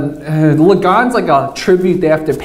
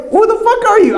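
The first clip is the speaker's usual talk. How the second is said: mock confused; 13 semitones higher than usual. Inner thought, confused.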